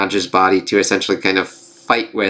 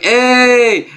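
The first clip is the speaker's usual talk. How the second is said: high, held-out cheer; mock calling out; 12 semitones higher, 4 dB louder than usual. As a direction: imitate a flier hollering a greeting. Imitates man flying past plane.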